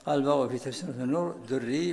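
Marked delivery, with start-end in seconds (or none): 1.3-1.9 دري said durriyy, without a glottal stop; u, doubled y, no hamza. Shown as a demonstration. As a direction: round the first vowel of دري to u, leave the end unstopped. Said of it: "بضم الدال وتشديد الياء بلا همز". (دري بضم الدال وتشديد الياء بلا همز)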